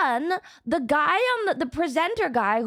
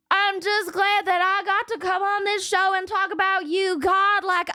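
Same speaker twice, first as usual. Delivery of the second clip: a touch of a tearful testimony, higher; emotional singer impression; 5 semitones higher than usual. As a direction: gush thanks to God like a moved singer. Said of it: "And he's like".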